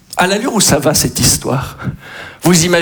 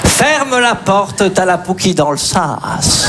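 slow dictation; slower than usual. Pretend. Teacher dictating lyrics to pupils, slow. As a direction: dictate word by word.

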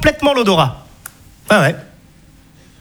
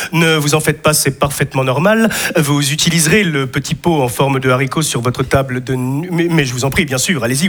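lower, smooth doctor's bedside manner; surgeon voice; 5 semitones lower than usual. Retold or imitated. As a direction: play the polite surgeon, lower. Comic retells surgeon's words.

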